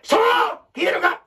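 put-on high, excited call to the kids; voice-only emphasis. Shown as a demonstration. Teacher showing voice-only storytelling, high and excited. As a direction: sell it with the voice alone. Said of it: "身振り手振りでけんから".

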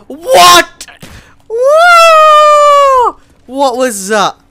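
very high, loud startled yell; shocked shout. Real, not acted. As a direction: cry out as if jumped at. Shocked by in-game event.

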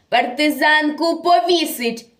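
a mild theatrical shout of command; commandant's cry. Acted. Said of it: "Кричить комендант".

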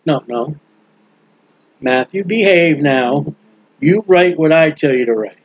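lightly voiced Holy Spirit scolding Matthew. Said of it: "Holy Spirit said".

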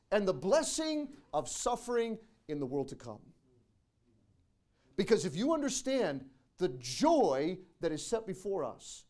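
loud, high, fervent preaching climax; preaching at full force. Acted. Pastor urging the church on suffering, full-force preaching. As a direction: build the sermon to a roaring finish.

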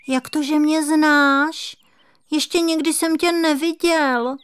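a small kitten marvelling at a stranger; amazed kitten. A narrator's reading. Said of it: "divil se kocourek". (udivený kocourek, vysoký dětský hlásek)

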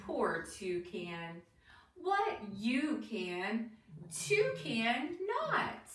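lilting, deliberate rhyme reading; reading to children. Acted. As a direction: read a bouncy rhyme to young listeners, questions lifted at the end. Reads picture book to children.

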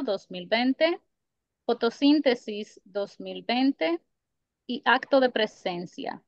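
measured list reading with lifted, drawn-out dates; deliberate recital of a written bibliography; formal bio read-out. Acted. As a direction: read out each title and year as a separate item, pausing between. Reads out poet's written biography.

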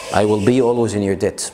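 debt said slowly as "det", b silent; I will be always in your debt spoken slowly; slow clear idiom. Shown as a demonstration. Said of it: "كلمة debt". (ببطء debt من غير الـ b)

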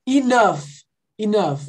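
"enough" as "i-NUF", GH said like F; final F sound. Shown as a demonstration. Teacher repeating the word a student asked about, "enough" ending in F. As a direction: model "enough" clearly, ending on F. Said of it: "como se fosse um F no final".

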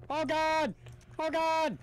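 high startled "Oh God!"; startled cry. Real, not acted. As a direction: yelp it in real fright. Sudden scare in horror game.

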